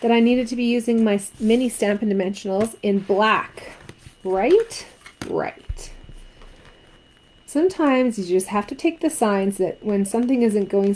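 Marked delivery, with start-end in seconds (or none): 5.3-5.9 deep mock answer. Crafter answering her own question in a low mock voice. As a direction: drop way lower for a gruff self-reply.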